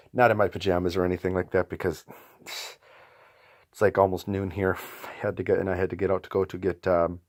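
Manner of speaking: numb mouth after dentist. Real, not acted. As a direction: talk with half the mouth numb. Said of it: "if I sound a little stranger than usual, half my mouth is numbed out".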